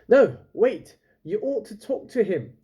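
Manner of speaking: loud, high call to stop her; calling after a friend who runs off; urgent call. A narrator's reading. Friend calling out to stop Lila, urgent and loud.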